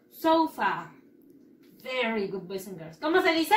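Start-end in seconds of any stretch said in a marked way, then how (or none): 0.1-0.9 "Sofa" said sou-fa, falling on the end. Shown as a demonstration. Teacher demonstrating the O with a U in "Sofa", stressed. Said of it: "una O con una U".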